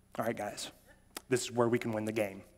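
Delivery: very low, mild, soft, composed coach voice. Retelling what the coach said late in the game, imitating the coach calmly. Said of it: "calmly goes".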